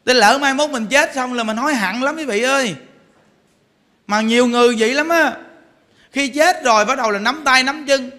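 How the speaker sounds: usual speaking voice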